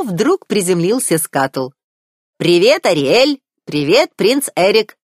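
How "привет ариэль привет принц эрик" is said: bright squawky bird greeting, higher and louder; a chirpy seagull calling hello; cheerful seagull voice. A narrator's reading. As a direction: Scuttle the seagull greeting the prince.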